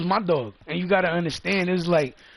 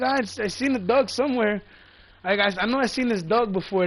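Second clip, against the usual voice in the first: imitating the dude; 5 semitones higher than usual. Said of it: "That's what the dude was saying".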